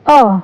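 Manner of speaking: "अ" as a short uh vowel; letter sound demo. Shown as a demonstration. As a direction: sound out "अ" for learners. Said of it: "U की sound होती है".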